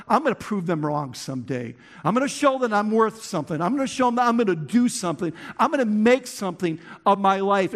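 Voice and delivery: fast, driven vow to prove them wrong; quick, defiant resolve; determined inner voice. Retold or imitated. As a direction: rattle off the vow like stubborn self-talk. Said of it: "you live with that voice on the inside".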